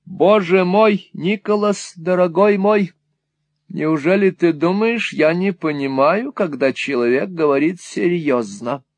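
high, effusive motherly protest; indignant exclamation. A narrator's reading. Mother insists she knows serious courtship, indignant exclamation. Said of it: "воскликнула миссис Никлеби".

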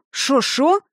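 sharp rising startled cry; surprised exclaim. A narrator's reading. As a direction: blurt it out in shock. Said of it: "воскликнули".

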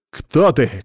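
shout. Acted. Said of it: "крикнул я в неизвестность".

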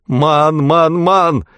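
high, shrill cry of terror; piercing cry. A narrator's reading. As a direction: shriek it piercingly. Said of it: "пронзительно вскричал мэр". (пронзительный испуганный вскрик)

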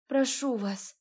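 a pained, moaning plea. Acted. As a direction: beg through the pain. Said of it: "простонала я".

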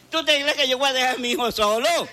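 laughing. Acted. Father defending his son.

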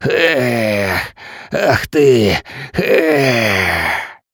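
spluttering coughs; coughing up water. A narrator's reading. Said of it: "выплёвывая воду".

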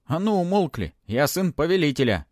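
high, forceful order for silence; angry command. A narrator's reading. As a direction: assert authority over the spirits. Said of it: "разозлился Матвей".

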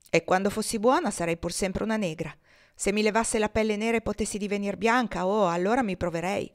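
lightly voiced slave girl, bitter; a hint of a sulky young girl; defiant girl's voice, mildly played; Topsy.

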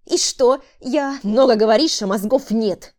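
harsh contemptuous scolding; angry man. A narrator's reading. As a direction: spit out the insult at her. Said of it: "Процедил он". (злой презрительный мужской голос)

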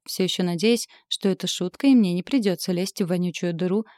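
usual speaking voice

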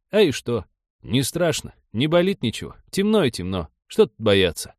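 put-on animated elderly rustic voice; old villager. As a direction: argue like an aged peasant staying put.

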